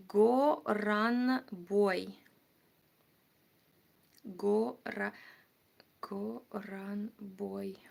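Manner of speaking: slow, hushed, nearly whispered; murmured to self. Real, not acted. Streamer looking up a viewer's city, murmuring to self. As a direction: mutter it slowly under your breath.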